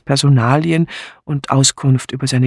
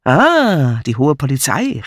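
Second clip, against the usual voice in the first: playful exclamation with a drawn-out Ah; called out; 3 dB louder, slower than usual. Acted. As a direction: hail them with mock respect. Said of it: "rief er".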